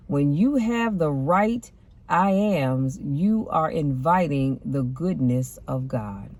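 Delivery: slow, weighty delivery of each word; slow emphasis. Shown as a demonstration. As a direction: lean on it slowly so it sinks in. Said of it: "Keep that in mind".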